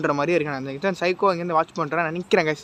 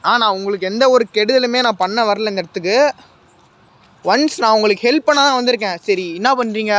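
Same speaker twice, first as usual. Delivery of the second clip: raised, earnest calls to the spirit; loud reassurance; 2 semitones higher, 5 dB louder than usual. Real, not acted. Ghost hunter assures the watching spirit he came to help, loud. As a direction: insist you mean no harm.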